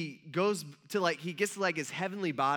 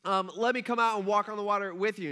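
mock yelling out; 2 semitones higher, 4 dB louder than usual. Peter calling to Jesus from the boat, mock yell. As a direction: imitate calling across the water, half-shouted. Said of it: "Peter yells out".

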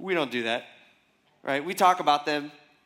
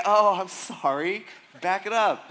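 forced polite smile. Retold or imitated. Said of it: "I have to smile and say".

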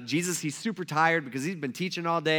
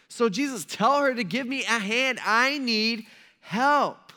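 high, slow, exasperated whine; worked-up complaint; 5 semitones higher, 4 dB louder, slower than usual. Retold or imitated. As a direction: boss him around, dragging out each grievance. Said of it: "she's so worked up".

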